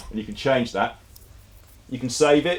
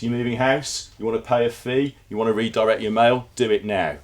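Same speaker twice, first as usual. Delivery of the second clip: brisk, slightly raised sales pitch, ending in a command; mock-urgent ad voice, a bit louder; punchy ordering tone; 2 semitones higher, 3 dB louder than usual. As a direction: push them to act right now. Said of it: "It's almost ordering".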